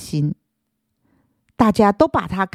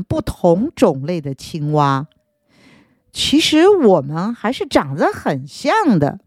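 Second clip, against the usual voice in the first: sly snake voice; 3 semitones lower than usual. Acted. Snake luring frog.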